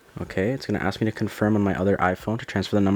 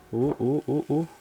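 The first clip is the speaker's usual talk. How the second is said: gentle excited cooing; delighted oohs; 6 semitones higher than usual. Real, not acted. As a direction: coo with pleasure as the peel comes off. Peeling the screen film.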